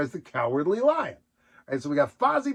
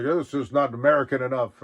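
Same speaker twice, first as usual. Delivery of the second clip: Sam Eagle; 2 semitones lower than usual. Retold or imitated. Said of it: "Sam Eagle, like, being like".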